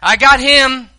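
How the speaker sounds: loud high eager claim; hammed-up grandma vouching at judgment; aunt claiming you at the judgment seat. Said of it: "standing in heaven ... saying".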